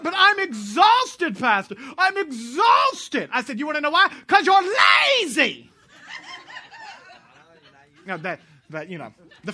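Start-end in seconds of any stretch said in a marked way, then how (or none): 0.0-3.3 loud, high wail on a long-drawn "exhausted"; hammed-up bellyaching, stretched out and shouted; mock whining protest. Frenchman protesting to the pastor, mock whining wail. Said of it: "He's like". 3.6-5.6 retold scolding shout. Preacher telling off the Frenchman, mock-outraged shout.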